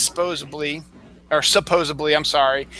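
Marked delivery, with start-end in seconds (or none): 0.0-0.8 supposedly said as "SPOZE-uh-blee"; mispronunciation. Retold or imitated. Host quoting Joey from Friends, mispronounced. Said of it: "Joey was one saying it as". 1.4-2.1 supposedly said as "suh-POZE-uh-blee"; full first syllable, B for D in supposedly; mispronunciation. Retold or imitated. Host correcting how Joey says it, mispronounced. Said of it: "Joey was one saying it as".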